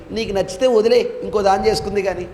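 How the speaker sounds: imitating a breezy, no-big-deal suggestion; casual advice. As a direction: toss it off as if it were simple. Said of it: "సింపుల్గా అన్నాడండి".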